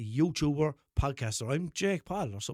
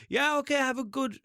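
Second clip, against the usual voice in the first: higher, louder sign-off cut short; sentence abandoned midway; 8 semitones higher, 3 dB louder than usual. Retold or imitated. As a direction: break off before the last word. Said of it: "I had to just stop".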